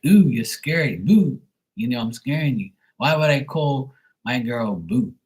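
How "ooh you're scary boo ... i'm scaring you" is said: louder, higher ghostly tease; lightly hammed-up scare; mock spooky boo. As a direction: jump out to scare. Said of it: "Boo is like".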